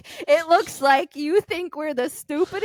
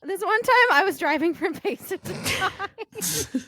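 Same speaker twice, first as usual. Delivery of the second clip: higher, slower mock storyteller; imitating Monica; 6 semitones higher than usual. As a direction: lightly ham up Monica's story opener. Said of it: "every story Monica told when we were in Colorado was".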